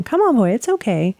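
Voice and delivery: mild imitation of calming a dog; retold soothing. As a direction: gently talk a worked-up dog down. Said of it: "trying to just calm it down".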